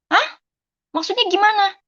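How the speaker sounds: a sudden high gasp of disbelief; stunned, asking as if she misheard; shocked disbelief. Retold or imitated. Daughter told by phone that her mother has died, high shocked disbelief.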